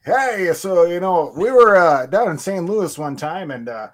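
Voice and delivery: lightly voiced rambling old announcer; a hint of a chatty baseball announcer; folksy announcer. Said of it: "he can just talk".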